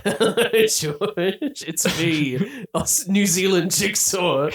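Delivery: put-on New Zealand accent. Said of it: "Oh, I'm going back towards Cockney now".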